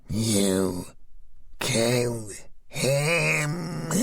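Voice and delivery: very slow, crying, voice climbing; rising, tearful question; rising on each word. Acted. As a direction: break down in disbelief. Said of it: "Her voice rose on each word".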